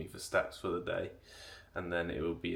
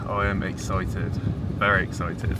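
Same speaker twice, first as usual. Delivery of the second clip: excited; 2 semitones higher, 9 dB louder than usual. Real, not acted. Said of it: "I'm excited".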